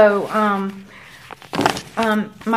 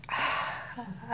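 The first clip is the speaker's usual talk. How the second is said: sigh of relief; 3 semitones higher, 14 dB quieter than usual. Retold or imitated. Patient hears the procedure is over.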